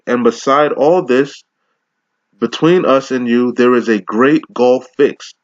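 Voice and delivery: preacher intoning the King James text; scripture reading. Acted. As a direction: lift the verse up and let it ring. Reads scripture in sermon.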